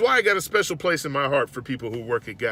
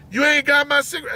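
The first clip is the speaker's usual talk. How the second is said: loud, higher angry complaint; cussing man; 10 semitones higher, 4 dB louder, faster than usual. Retold or imitated. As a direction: bark it like an angry customer. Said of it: "And he's just cussing".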